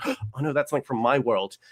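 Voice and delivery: gasp, then say it quietly as if to yourself; hushed imitation of sudden realization; imitated dismay. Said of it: "then he'll be like".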